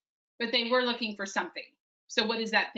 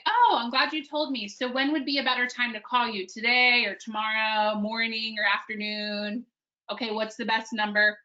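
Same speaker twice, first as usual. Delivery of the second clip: long-winded reply. Shown as a demonstration. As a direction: ramble on as if you have all the time in the world. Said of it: "So you don't wanna say".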